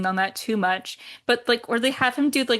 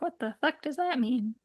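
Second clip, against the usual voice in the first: muttered; 3 semitones higher, 7 dB quieter than usual. Retold or imitated. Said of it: "He's like".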